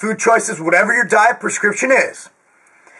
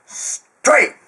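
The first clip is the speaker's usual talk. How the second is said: whispered echo. Acted. Echoing his catchphrase.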